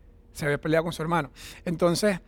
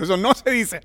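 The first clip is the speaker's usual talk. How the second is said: mock pious; 3 semitones higher, 3 dB louder than usual. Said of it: "estaba como súper religioso".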